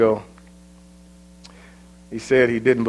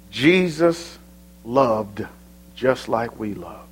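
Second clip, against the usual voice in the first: tender hush; slower than usual. Acted. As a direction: draw the people in close, speaking of grief. Tender, hushed sermon close.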